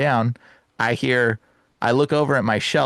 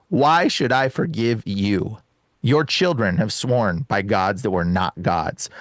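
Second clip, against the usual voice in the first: solemn scripture reading; 3 semitones lower, much slower than usual. Retold or imitated. Reading a scripture verse aloud.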